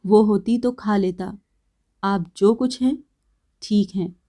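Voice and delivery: calm cutting reply, kept quiet. Acted. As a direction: answer coolly without heat. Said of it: "उसी भांति शांत कंठ से कहा".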